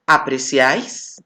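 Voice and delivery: apreciáis said slowly with a rise; example word. Shown as a demonstration. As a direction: model apreciáis slowly, rising at the end. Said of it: "Por ejemplo".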